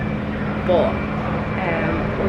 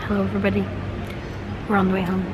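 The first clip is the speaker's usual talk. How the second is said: smoker's rasp. Real, not acted. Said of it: "I sound like I've been smoking all week".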